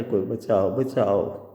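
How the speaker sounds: mild mock cries for help. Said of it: "એમ પણ રાડો પાડે, બૂમો પાડે". (મદદ માટે હળવી બૂમો)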